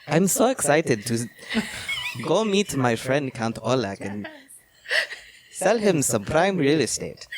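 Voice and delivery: lightly put-on German accent. Jonathan off to meet the Count, mock German accent. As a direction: play an eager traveller with a German accent. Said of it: "do the accent".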